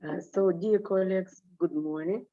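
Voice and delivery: hoarse, strained speaking voice; grating voice. Real, not acted. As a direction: push through a worn-out grating voice. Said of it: "sorry for my terrible voice".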